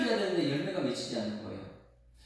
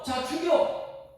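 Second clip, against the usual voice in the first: God's stern order; 11 semitones higher, 4 dB louder, much slower than usual. Retold or imitated. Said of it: "지금 하나님께서는요".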